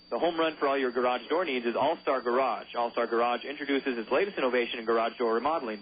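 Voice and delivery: upbeat sponsor read in announcer voice; radio ad read. Acted. Announcer reading sponsor ads between pitches, upbeat ad read. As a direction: sell it like a local radio spot.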